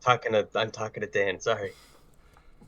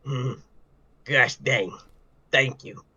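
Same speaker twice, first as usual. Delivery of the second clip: vagrant. Acted. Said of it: "do your vagrant voice".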